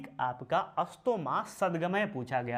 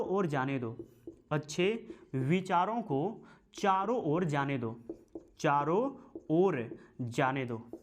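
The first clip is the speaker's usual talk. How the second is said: slow dictation. Shown as a demonstration. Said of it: "लिख लेते हैं".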